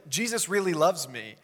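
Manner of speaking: a touch of boasting; mildly braggy. Acted. John talking about himself, lightly bragging. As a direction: lightly show off about being the favorite. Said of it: "in an appropriately braggy way about it".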